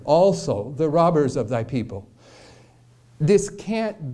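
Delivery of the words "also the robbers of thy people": Also set apart and stressed. Shown as a demonstration. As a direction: lean hard on the word Also. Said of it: "to put emphasis on this word".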